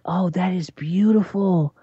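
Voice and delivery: high granny voice in awe and mild fright; old grandmother voice. Retold or imitated. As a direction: squeak it out like an amazed granny afraid to fall. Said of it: "she's like".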